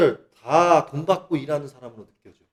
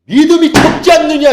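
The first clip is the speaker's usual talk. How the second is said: higher, louder stern question; the Father's rebuke; 9 semitones higher, 10 dB louder than usual. Retold or imitated. The Father rebukes weak faith, louder and higher. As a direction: boom it out as a reproach from above. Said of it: "이러신다고".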